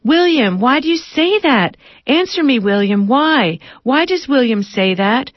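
high, frantic screech. A narrator's reading. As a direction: screech at someone who isn't there. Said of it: "screeches to an imaginary companion".

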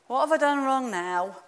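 a lightly voiced, self-confessed bad Scottish accent. Preacher imitating a worrier in a poor Scottish accent. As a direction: have a go at a Scottish accent and miss. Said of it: "appalling attempt at a Scottish accent".

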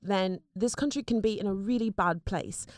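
put-on British girl's accent; earnest appeal in a British accent. Shown as a demonstration. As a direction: do a British girl pleading to listeners. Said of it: "Here, I'll do one for you".

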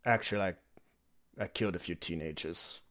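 slow, weary undead aristocrat; vampire voice. Acted. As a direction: speak like a bored ancient count. Vampire reminiscing.

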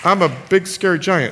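subdued pretend giant, no boom left; deflated giant. Giant after two defeats by Caleb, deflated threat. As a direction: say it as a beaten giant.

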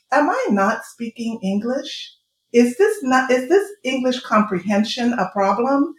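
put-upon, disbelieving query; exasperated questioning. Retold or imitated. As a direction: ask it as if nobody understands you. Quoting own exasperated questions to others.

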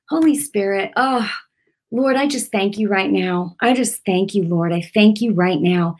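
murmured thanks to the Lord; heartfelt prayer. Real, not acted. Spontaneous prayer at end.

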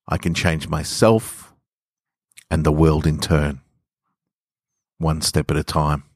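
calm, measured storytelling read; story narration. A narrator's reading. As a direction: read it gently like a bedtime story. Reads story to podcast listeners.

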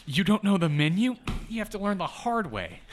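high, loud scolding Karen; mean coworker mockery. Voicing the mean driver.

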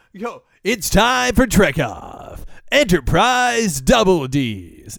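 slow, drawn-out announcer intro; show intro voice. Retold or imitated. Host imitates his own show-opening announcer voice. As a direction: drawl it like a radio hype man. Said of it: "they just go".

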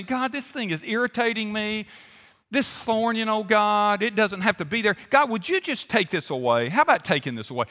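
mild offhand complaint to God, not pleading; casual griping prayer. Acted. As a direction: toss it off as a half-hearted request. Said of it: "He didn't just say".

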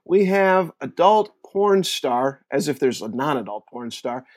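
slow, drawn-out mock Australian accent; a bad stab at an Australian accent; shitty Australian accent. Host introducing Australian guest in a bad Australian accent. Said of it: "that was a really shitty Australian accent on my part".

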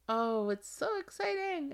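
high excited gush; excited squeal. Real, not acted. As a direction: squeal it like you can't contain the joy. Gushing over her book release.

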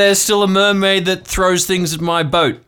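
an uncle sure of his wild theory; excited conspiracy uncle. Acted. GM plays uncle Marv.

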